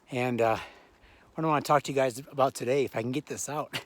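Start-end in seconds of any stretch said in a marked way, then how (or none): 2.8-3.8 struggling for breath mid-sentence; gasping the words out. Real, not acted. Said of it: "I'm a little out of breath".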